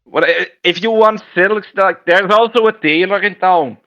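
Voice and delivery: put-on a Scots accent that slides toward Jamaican; hammed-up Scots merchant with a drifting accent; Scottish accent attempt. Merchant advises the adventurer in a wobbly Scottish accent. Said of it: "Why are you talking Jamaican?".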